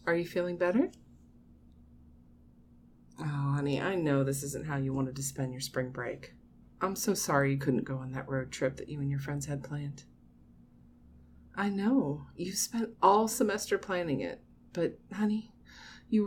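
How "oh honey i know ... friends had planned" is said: low, soft consoling voice; sympathetic. Acted. Mother consoling her grown child over a missed trip, sympathetic. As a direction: soothe gently, pitched down.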